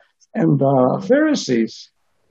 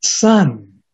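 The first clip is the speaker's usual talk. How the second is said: tender repeat; 6 semitones lower than usual. Acted. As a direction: linger on Son like a loving father. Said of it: "isn't that beautiful".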